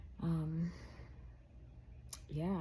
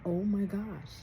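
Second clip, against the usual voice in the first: panicked quote; 3 semitones higher, 6 dB louder, slower than usual. Retold or imitated. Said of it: "And I'm like".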